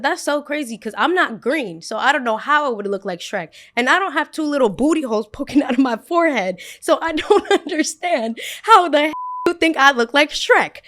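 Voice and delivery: high, loud and half laughing; laughing outrage. Retold or imitated. Girl called Shrek rebuts the boy, high loud laughing outrage. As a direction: rant through laughter.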